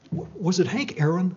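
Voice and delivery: laughing. Real, not acted.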